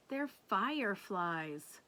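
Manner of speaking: slow matter-of-fact voice; knowing brother. Acted. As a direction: explain it plainly. Brother explains.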